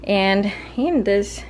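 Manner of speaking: breathless, gasping between words; out of breath. Real, not acted. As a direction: talk while short of breath. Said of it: "I'm out of breath".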